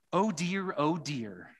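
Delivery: put-on fretful little girl sighing oh dear; Lucy, fretting. Preacher reading Lucy to the church, a touch of a fretful girl. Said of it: "said Lucy".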